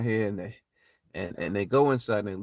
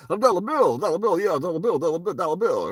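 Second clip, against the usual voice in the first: higher, louder hyped-up club owner; Bernie Mac impression; 8 semitones higher, 4 dB louder than usual. Retelling the movie scene, imitating Bernie Mac's hype. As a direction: announce yourself like a proud hustler. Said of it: "He goes".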